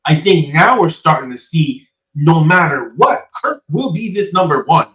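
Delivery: muffled, roomy bad connection; sounding far off in an attic. Real, not acted. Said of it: "He sounds like he's in an attic".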